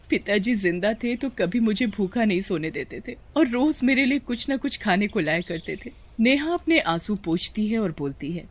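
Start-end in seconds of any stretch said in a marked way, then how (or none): 0.1-6.1 lightly acted weeping; understated mock crying; tearful. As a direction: recall a lost father with a touch of tears. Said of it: "Neha रोते-रोते बोलती है".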